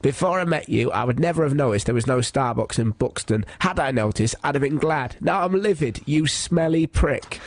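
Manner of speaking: John's voice. Retold or imitated. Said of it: "I always read him out in his voice".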